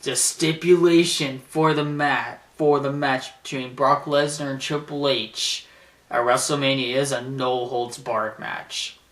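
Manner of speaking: slow, measured announcement, lightly imitated; Paul Heyman. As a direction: spell out the terms deliberately. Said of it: "he goes like this".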